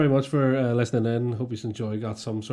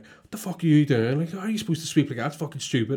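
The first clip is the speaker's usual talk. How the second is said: imitating the boss; 3 semitones higher than usual. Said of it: "he was like".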